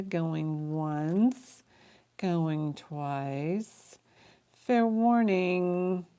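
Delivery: drawn-out auction countdown; auctioneer's closing call. Real, not acted. Host closes Lisa's bid, auctioneer's closing call. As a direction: stretch out the final warning to bidders.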